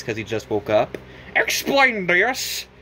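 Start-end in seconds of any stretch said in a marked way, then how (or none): 1.3-2.7 very slow, higher demand; stern demand. Acted. Elder Kettle demanding an explanation, slow stern. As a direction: drag it out sternly. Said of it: "said the Elder Kettle".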